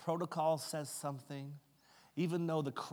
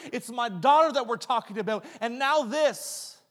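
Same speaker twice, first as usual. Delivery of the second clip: climbs higher and louder with each what if; mounting anxious urgency; 9 semitones higher, 9 dB louder than usual. Acted. Preacher voicing Jairus's fear for his dying daughter, rising to a louder, higher, anxious plea. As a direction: let the panic build line by line.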